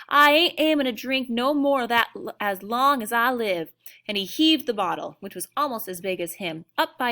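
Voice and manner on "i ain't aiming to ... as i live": an indignant cowboy refusing the water, in Texas tones; angry Texas cowboy. A narrator's reading. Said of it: "in a strong Texas accent".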